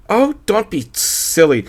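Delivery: high, breathy-free gushing lady voice; wife cooing to her husband. A narrator's reading. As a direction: coo it like a tipsy wife. Gladys voiced in story.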